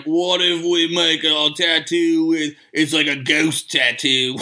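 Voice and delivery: drawn-out Australian vowels, slow; mock Australian accent. Co-host mimicking the book's Australian tattoo writers, slow Australian accent. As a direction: put on a slow, broad Aussie accent. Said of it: "It sounds like they were like".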